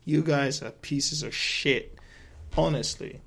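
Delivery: slow, dragged-out contempt; disgusted rant. Retold or imitated. Vlogger telling off Rotten Tomatoes, in slow disgusted contempt. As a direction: spell each insult out with scorn. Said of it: "I'm like".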